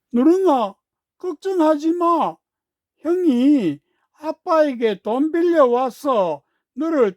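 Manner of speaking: put-on boy speaking carefully. A narrator's reading. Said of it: "또박또박 말했습니다".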